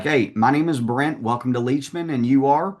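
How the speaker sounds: upbeat salesman. Shown as a demonstration. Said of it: "so you can be like".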